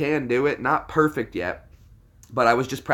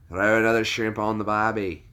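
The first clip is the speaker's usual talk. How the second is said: put-on stock Aussie catchphrase accent; casual put-on Aussie voice; Australian accent. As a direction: toss it off in Australian. Stock Australian line during accent demo.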